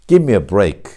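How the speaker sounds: "Give me" said as "gimme"; "Give me" with no V, just "gimme"; assimilated "give me". Shown as a demonstration. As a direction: run "Give me" into one word, V melted into M. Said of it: "완전 동화 현상이".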